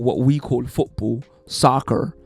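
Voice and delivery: lightly put-on American accent; mock American accent. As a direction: say it with a hint of American twang. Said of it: "I've gotta stop doing that accent".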